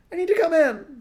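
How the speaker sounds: high, loud shout through the door; shouting back. Acted. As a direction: yell to be let in from the rain. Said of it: "the person outside shouted back".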